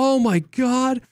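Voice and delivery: high, slow, wide-eyed oh my God; mock amazed gasp. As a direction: play the stunned newbie, drawn out. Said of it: "And we were like".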